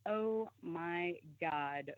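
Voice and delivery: drawn-out, hushed, stunned; slow stunned gasp. Retold or imitated. Friend realizing the witches' ritual: slow hushed shock. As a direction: let the realization sink in slowly.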